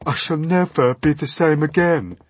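loud, high-pitched earthworm grumble; put-on woeful worm voice; complaining earthworm. A narrator's reading. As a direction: moan it as the aggrieved earthworm. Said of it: "murmured the earthworm".

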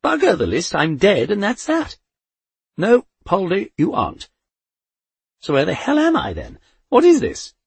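put-on high, loud furious old lady; old woman raging at Death about being dead, loud; angry Poldy. A narrator's reading.

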